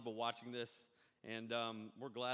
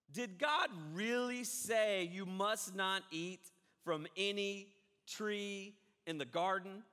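sly serpent; 4 semitones higher, slower than usual. Acted. Satan voiced tempting Eve.

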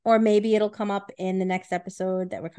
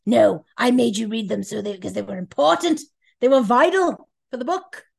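lightly put-on whiny voice; a hint of a defensive friend; mocking friend's excuse; 4 dB louder than usual. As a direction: mimic her defensive excuse. Mimicking Alex's excuse.

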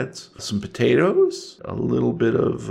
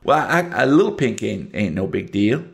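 put-on Southern accent. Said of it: "Southern one minute and Cajun the next".

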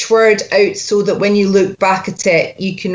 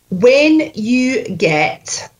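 slow, separated Scottish model; Scottish accent; 4 semitones higher, much slower than usual. Shown as a demonstration. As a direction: spell out the Scottish sounds slowly. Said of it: "You're Scottish all the way through".

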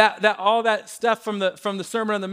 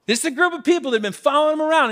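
rising excitement; 6 semitones higher, much faster than usual. Real, not acted. Preacher stirring the congregation, rising fast and excited. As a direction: pitch lifts and pace quickens with fervour. Preacher building emphasis on crowd.

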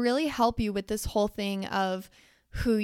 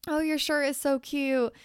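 higher-pitched admiring coo; lightly imitated gushing friend; gushing complimenter; 4 semitones higher than usual. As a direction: play a friend gushing over an outfit. Voicing someone paying a compliment.

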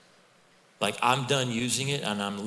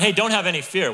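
mock breezy; 9 semitones higher, 8 dB louder than usual. Mock quote of wrong message.

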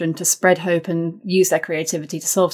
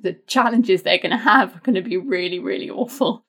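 voice wobbling; 3 semitones higher than usual. Real, not acted. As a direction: voice trembling with real worry. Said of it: "I can al-, already hear my voice wobbling".

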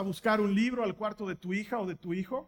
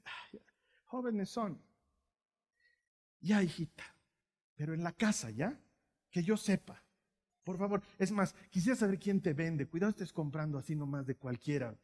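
lax indulgent mother; 3 semitones lower than usual. Retold or imitated.

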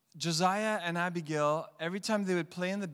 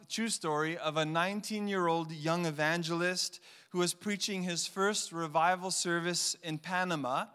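usual speaking voice

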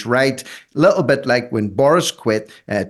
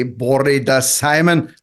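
slow attempted Welsh greeting; Welsh accent; 2 semitones higher, slower than usual. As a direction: try a Welsh hello. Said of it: "How do you think of that for my Welsh".

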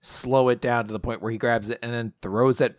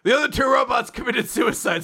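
mock cheerful; 9 semitones higher than usual. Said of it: "They're like".

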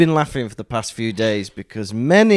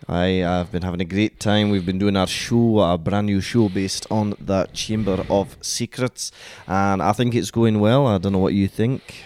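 Lucas McKirky voice; 6 semitones lower than usual. Pretend. Podcast host fooling listeners as a put-on character, lower voice. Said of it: "Did you think I was Lucas McKirky?".

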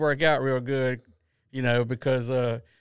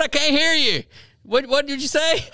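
mock laughing; 12 semitones higher, 5 dB louder than usual. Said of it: "He starts laughing".

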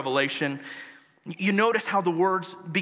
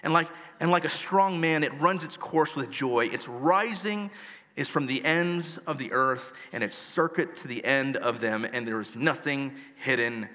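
measured pulpit reading; scripture reading. Acted. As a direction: read each phrase of the Bible with weight. Continues reading Psalm nineteen.

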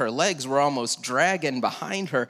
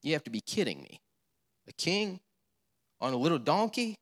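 incredulous; 5 dB quieter, faster than usual. Acted. Mocking doubters' disbelief.

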